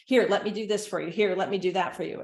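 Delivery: quick, eager take-over voice; hurried helper. Retold or imitated. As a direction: rush in and grab the task. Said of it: "helicopter caregivers".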